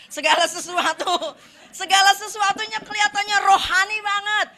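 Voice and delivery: laughing through the words. Real, not acted. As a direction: chuckle as you say it. Laughing while preaching. (sambil tertawa)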